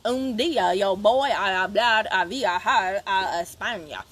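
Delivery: lightly drawled Spanish with a hint of a southern accent; Spanish said with a touch of a southern twang; mock southern-accented Spanish. Shown as a demonstration. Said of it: "speak Spanish with a southern drawl".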